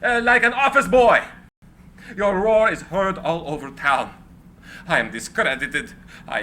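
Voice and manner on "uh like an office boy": rising anger. Acted. Tesla's tirade rising against Morgan.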